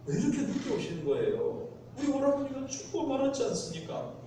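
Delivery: grieving sister blaming him for coming late; 원망하는 말투. Retold or imitated. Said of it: "이런 원망이 이제 들어있는 겁니다". (마르다가 예수께 늦었다고 원망하듯)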